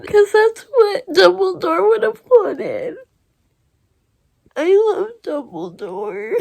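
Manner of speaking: choked up, pushing the words through tears; crying while talking about a beloved headmaster; real crying. Real, not acted. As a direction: voice breaking, tearful. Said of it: "I can't believe I'm crying so much".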